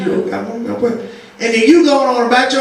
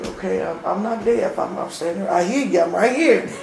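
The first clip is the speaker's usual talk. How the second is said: soft, low, unbothered answer; calm reply; 7 semitones lower, 8 dB quieter than usual. Pretend. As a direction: say it like the shouting was needless. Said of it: "She's like".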